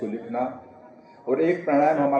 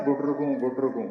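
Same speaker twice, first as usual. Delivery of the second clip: lightly mimicked pigeon call in mid-explanation; pigeon cooing; 3 dB quieter than usual. Shown as a demonstration. Yoga teacher showing students how a pigeon sounds, light cooing imitation. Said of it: "जैसे कबूतर करता ना".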